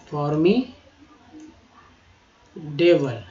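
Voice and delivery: very slow stretched repeat; slow demo. Shown as a demonstration. Teacher repeating the word, very slowly drawn. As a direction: linger on every syllable. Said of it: "teacher repeats word slowly".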